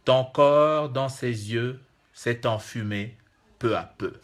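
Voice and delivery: slow, measured verse with long pauses; poem recitation. Acted. Poet giving listeners the first two stanzas of his river-poem, slow recitation. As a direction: recite it line by line, falling away at the close.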